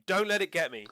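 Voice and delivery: high, loud screaming plea; terrified scream. Acted. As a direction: scream it right in their face. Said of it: "is screaming at you".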